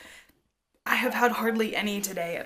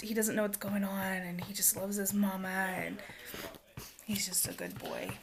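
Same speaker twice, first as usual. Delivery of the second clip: whisper; 6 dB quieter than usual. Real, not acted. Tender talk about son.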